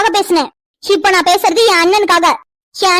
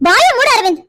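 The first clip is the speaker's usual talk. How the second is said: sharp rebuke; 5 semitones higher than usual. Acted. Aunt silences nephew again.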